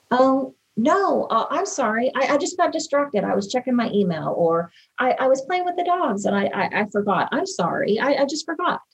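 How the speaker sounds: wife mimicking her husband's stammered sorry; sheepish apology. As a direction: imitate him fumbling for excuses. Wife imitates husband's flustered apologies.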